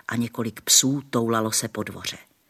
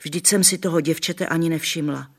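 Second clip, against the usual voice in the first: higher, louder dismayed exclamation; shocked grandmother; 6 semitones higher, 5 dB louder than usual. A narrator's reading. Grandmother crossing herself at the dirty girl, dismayed. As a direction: gasp it like a startled granny. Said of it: "křižovala se babička".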